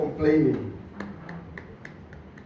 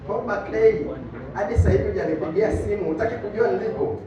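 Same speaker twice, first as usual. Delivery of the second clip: mock scolding mom; much faster than usual. Mom scolding dad for not calling.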